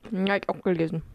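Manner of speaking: talking while eating cereal; mouth full. Real, not acted. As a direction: speak through a mouthful. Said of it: "Sprichst du mit vollem Mund?".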